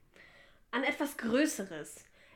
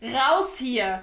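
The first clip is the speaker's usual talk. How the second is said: angry order; 6 dB louder than usual. Acted. Throws colleague out.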